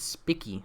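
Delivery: "spicky" with a short i, as in pick; short-i pronunciation. Shown as a demonstration. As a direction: say "spicky", rhyming with picky. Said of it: "not spiky".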